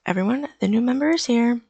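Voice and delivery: high, loud excited announcement; full of energy. Acted. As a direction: burst in announcing it to the whole room. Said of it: "full of energy".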